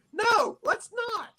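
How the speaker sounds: high, slow, loud refusal; loud exasperated no; emphatic no. Real, not acted. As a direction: shout it down, exasperated.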